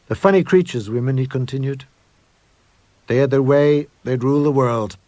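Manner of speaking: a lightly voiced chatty foreman; gruff foreman.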